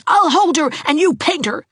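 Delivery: put-on eager boy. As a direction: urge her on, excited. Gerald urges Geraldine.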